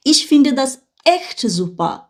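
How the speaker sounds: slow, clear German reading; slow model reading. Shown as a demonstration. Teacher reading the German line to the class, slow. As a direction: spell out each word of "Ich finde das echt super" for learners. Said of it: "তারপর কি লেখা?".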